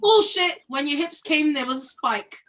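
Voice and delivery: put-on sharp London-flavoured British accent. Arguing in the play scene in a British accent. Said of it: "read it in a British accent".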